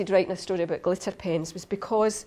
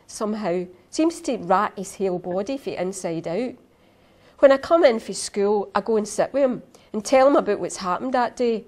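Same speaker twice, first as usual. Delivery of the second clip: story reading; 2 semitones higher than usual. Acted. Reads opening of her story.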